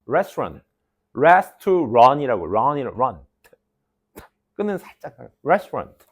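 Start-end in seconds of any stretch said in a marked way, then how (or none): 0.1-0.6 레스토랑 slowed down as "ras-tu-ran"; syllable-by-syllable English. Shown as a demonstration. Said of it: "이렇게 읽어". 5.4-6.0 restaurant in two syllables, "res-trant"; English pronunciation. Shown as a demonstration. Teacher showing how to read it, compact English "restrant". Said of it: "이렇게 읽어".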